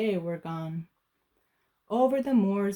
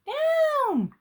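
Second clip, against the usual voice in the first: high, louder commanding cry; higher, louder command to land; witch cries down; 4 dB louder than usual. Acted. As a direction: call the broom down sharply. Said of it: "cried the witch".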